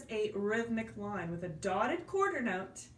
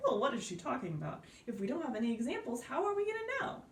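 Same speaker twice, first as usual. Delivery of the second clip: mock confused student; much faster than usual. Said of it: "I know it's kind of like".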